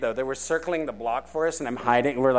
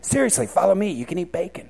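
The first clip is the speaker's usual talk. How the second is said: Jesus; 5 semitones higher than usual. Pretend. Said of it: "That's how Jesus got".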